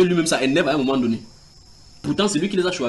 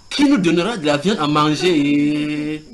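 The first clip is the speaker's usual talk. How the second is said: complaining question; 4 dB louder, slower than usual. Acted. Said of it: "ils posent la question".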